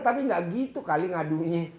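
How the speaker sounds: normal talking voice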